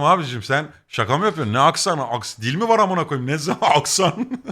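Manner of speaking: acting out baffled objection, breaking into laughter; mock incredulity. Customer questioning shopkeeper's accent excuse, mock incredulous.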